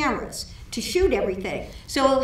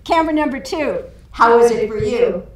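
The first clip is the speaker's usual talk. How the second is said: director calling out; 6 dB louder than usual. Retold or imitated. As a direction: call out again, patience fraying. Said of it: "And so he says".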